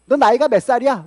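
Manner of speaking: a touch of acted indignation; acted quarrelsome anger. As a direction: imitate someone demanding age mid-argument. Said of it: "화를 내면서 싸우다 말고".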